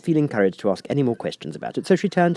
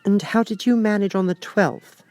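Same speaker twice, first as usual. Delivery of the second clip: eager; 13 semitones higher than usual. A narrator's reading. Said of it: "Alice went on eagerly".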